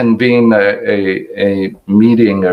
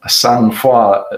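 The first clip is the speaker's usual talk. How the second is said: French accent. Shown as a demonstration. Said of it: "excuse my horrible French accent".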